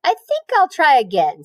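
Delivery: cheerful. Acted. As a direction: chirp it with fresh hope. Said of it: "said Wilbur cheerfully".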